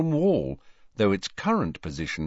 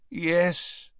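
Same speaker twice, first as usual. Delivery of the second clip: weary man; 9 semitones higher than usual. A narrator's reading. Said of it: "Mister Weasley's weary voice".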